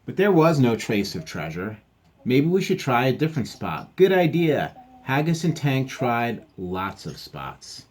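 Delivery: story read-aloud. A narrator's reading. Reading a dogs' treasure tale aloud, lively storytelling. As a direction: read it out for young listeners.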